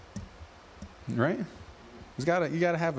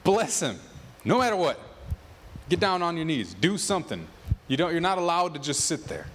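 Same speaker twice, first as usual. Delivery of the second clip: urgent self exhortation; 3 semitones higher than usual. Retold or imitated. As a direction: push yourself like a coach to your soul. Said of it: "And he's saying to his soul".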